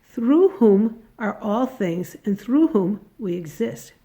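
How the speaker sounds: ordinary talk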